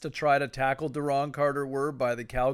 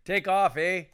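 a laughing, higher mock-Canadian "Take off, eh?"; Canadian accent; 5 semitones higher, 4 dB louder than usual. Co-host joking in a mock Canadian accent. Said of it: "the Canadian version of".

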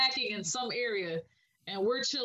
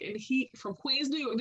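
put-on slipping into a New York accent; 2 semitones higher than usual. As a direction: let a Queens accent creep in. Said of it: "That, that was your New York accent?".

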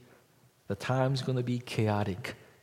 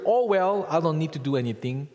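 higher, louder, quick shrug-off of any duty; careless indifference; 4 semitones higher, 5 dB louder than usual. Retold or imitated. Preacher mocking a fatalistic believer, careless shrug. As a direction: toss it off like nothing matters. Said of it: "the fatalistic indifference".

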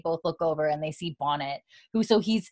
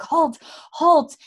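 higher, louder guard's halt; mock shout; 9 semitones higher, 6 dB louder than usual. Jail guard halting the intruders, mock shout. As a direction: bark it like a startled guard.

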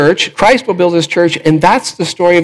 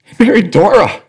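higher-pitched, as it suddenly clicks; dawning realisation; 6 semitones higher than usual. Retold or imitated. Wedding guest realising who the man's wife is, startled. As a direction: let the penny drop after a long pause.

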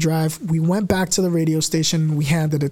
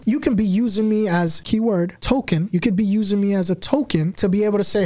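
normal talking voice

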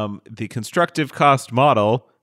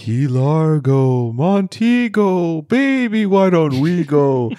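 low haunting voice; 2 semitones higher than usual. Pretend. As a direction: croon it like a lonely ghost. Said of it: "do this in a ghost voice".

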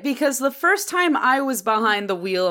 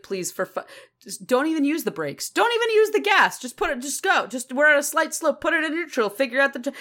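exasperated mom, pitch climbing higher and higher; pleading, frantic driving instructor mom; mom losing it; 5 semitones higher, faster than usual. Retold or imitated. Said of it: "losing my mind".

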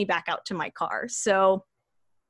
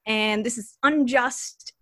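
mild declaration; 5 semitones higher than usual. Shown as a demonstration. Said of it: "you just have to say".

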